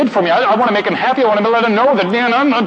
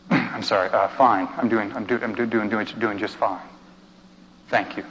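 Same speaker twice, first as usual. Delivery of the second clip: masked mumbled reply; 8 semitones lower, 8 dB quieter than usual. Retold or imitated. Forced answer after mask on.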